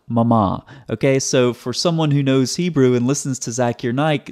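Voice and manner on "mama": "mama" with two open syllables, slowed; contrasting wrong form. Shown as a demonstration. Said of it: "not mama".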